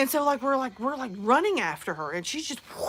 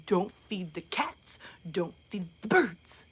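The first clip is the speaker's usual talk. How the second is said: whispered, slow warning; embarrassed whispered scold; hissed whisper; 5 semitones lower, 6 dB quieter, slower than usual. Retold or imitated. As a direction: whisper it through your teeth to mom. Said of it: "And I'm like".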